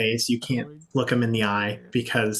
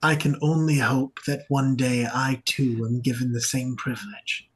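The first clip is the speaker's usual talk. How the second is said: measured, formal longing; reverent cultist; 4 dB quieter than usual. Acted. Veiled church member hoping for the same fate, reverent. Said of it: "And they go".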